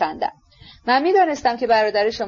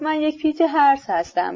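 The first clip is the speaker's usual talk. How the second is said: slow smirking sneer; 5 semitones higher than usual. Acted. Ippolit mocking his accuser, slow smirk. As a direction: drag it out with a smirk. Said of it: "ایپولیت با پوزخندی گفت".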